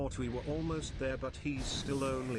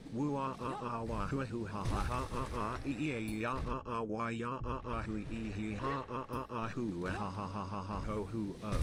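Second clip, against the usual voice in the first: lightly voiced unhinged cackling villain; a hint of a manic collector laughing; collector impression. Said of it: "Here's my collector impression".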